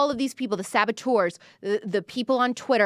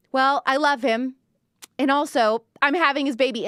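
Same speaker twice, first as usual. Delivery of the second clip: mock pleading daughter; 4 semitones higher, 3 dB louder than usual. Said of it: "like in those movies".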